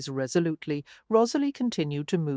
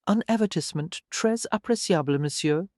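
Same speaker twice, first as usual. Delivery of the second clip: put-on pure French accent. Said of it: "an accent as pure as Emil's".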